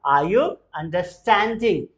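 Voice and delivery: very slow, word by word; slow model sentence. Shown as a demonstration. Teacher models the question slowly for students. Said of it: "बोलेंगे जरा".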